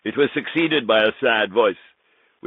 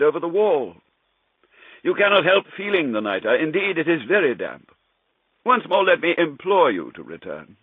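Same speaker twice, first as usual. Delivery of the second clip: Montresor, mock concern; 9 semitones higher than usual. Narrator taunting his chained friend, mock concern. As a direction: feign worry while trapping him. Montresor's mocking speech to Fortunato.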